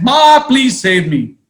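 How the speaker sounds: a high, pleading cry; half-hearted falling scream; mock scream. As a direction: call out to mom while falling. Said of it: "screamed and said".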